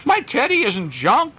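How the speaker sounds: put-on high, loud child's scream; storyteller shrieking as a little girl. A narrator's reading. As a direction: wail like a small girl losing her teddy. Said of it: "screamed Cheyenne".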